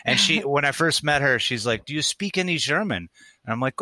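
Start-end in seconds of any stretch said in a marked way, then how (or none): 1.8-3.1 put-on German girl's accent. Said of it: "I dated a German girl".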